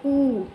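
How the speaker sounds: ऊ held two beats long; wrongly stretched vowel. Retold or imitated. Teacher shows people's common mistake, stretched oo. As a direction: drag ऊ out as a long oo. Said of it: "दो हरकत तक खींच देते हैं".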